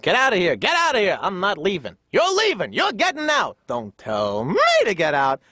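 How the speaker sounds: hammed-up New York squabble, pitch leaping; mock family yelling. Squabbling family in a Brooklyn home, mock yelling. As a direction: trade indignant shouts without full volume. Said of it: "a lot of yelling and screaming".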